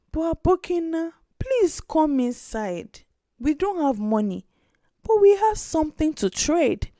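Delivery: don't let him walk away, insist; insistent little girl. Acted. Girl urges the trader into the hut, insisting child voice. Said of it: "Aisha insisted".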